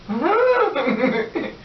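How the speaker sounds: high, drawn-out giggly squeal; imitated squeal-laugh. She gets out of the car with the money, high squealing laugh. Her reaction on leaving the car.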